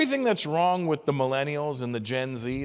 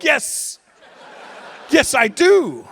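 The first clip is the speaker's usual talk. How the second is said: high, loud, laughing yes; eager agreement; 11 semitones higher, 8 dB louder, much slower than usual. Retold or imitated. Comic answering an old woman, eager and laughing loud. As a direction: pounce on it with delight. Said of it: "And I'm like".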